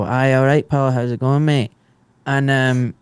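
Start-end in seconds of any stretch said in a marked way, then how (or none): 0.0-1.7 lightly put-on rough Glaswegian; a touch of Glasgow street accent. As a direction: greet a pal in everyday rough Glasgow speech. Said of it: "rough part of Glasgow where they go".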